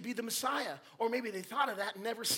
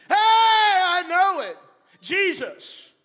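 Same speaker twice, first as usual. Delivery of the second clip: high, loud, slowed blurt of excitement; eager Peter; 8 semitones higher, 13 dB louder, much slower than usual. Acted. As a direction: jump in like the eager disciple. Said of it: "our favorite character ... pipes up".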